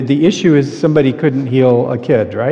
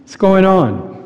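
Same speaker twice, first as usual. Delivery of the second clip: casual greeting; 5 semitones higher, slower than usual. Acted. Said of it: "in our kinds of language".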